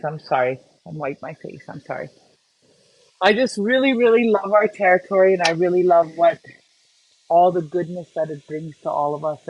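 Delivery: quiet and low, fighting back tears; real tears while missing home, voice sinking; tearful. Real, not acted. Telling viewers about missing home, choked up and tearful. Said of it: "I'm getting emotional".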